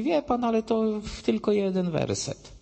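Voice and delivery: high-pitched imitation of an objector; acted nitpicking opponent; mock objection. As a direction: pipe up with a weak counterargument, pitched high. Another witness objects, acted.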